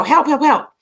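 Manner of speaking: a trapped boy's mild mock cry for help. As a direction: call out for help like a scared kid. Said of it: "he's screaming".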